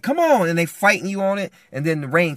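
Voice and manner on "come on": raised, high-pitched tug of a call; urgent urging. Acted. Grabbing them by the arm, urgent loud urging. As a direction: urge them sharply to move. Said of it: "you grab 'em by the arm, you're like".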